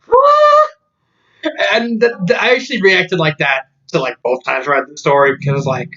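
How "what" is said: high squeaked confused what. Retold or imitated. Reader baffled by vegan Dracula, high squeaked what. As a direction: yelp it out in total confusion. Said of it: "just confusion over".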